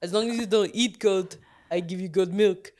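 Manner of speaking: Russian-sounding goat voice; a goat bargaining in a thick accent; goat impression. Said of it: "that is my goat impression".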